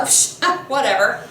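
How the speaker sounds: dismissive scoff with a small laugh; cocky. Acted. Oedipus shrugging off the Sphinx's threat to eat him, cocky. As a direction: brush the threat off, mock-confident. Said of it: "a little bit cocky".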